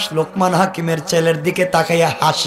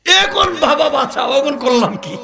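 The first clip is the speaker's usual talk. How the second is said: acted desperate plea; 6 semitones higher than usual. Doomed groom begs uncle to save him.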